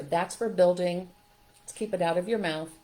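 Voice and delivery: put-on patiently steer the child, no scolding; a kind caregiver redirecting a toddler, calm; gentle redirect. Shown as a demonstration. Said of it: "She didn't redirect him".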